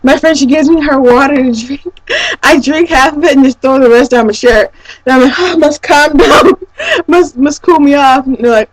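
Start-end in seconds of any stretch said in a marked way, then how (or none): 5.4-8.2 panting, worn out; breathless and spent; out of breath. Retold or imitated. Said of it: "out of energy and out of breath".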